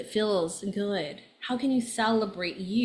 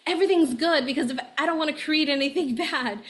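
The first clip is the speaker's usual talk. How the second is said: mock toxic positivity; 5 semitones higher, faster than usual. Astrologer parodying toxic positivity, chirpy and fast. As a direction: sell the forced cheer. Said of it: "that toxic positivity is".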